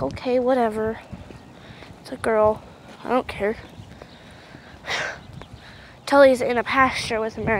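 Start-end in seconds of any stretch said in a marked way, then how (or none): 0.0-3.6 unbothered. Retold or imitated. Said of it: "he's like".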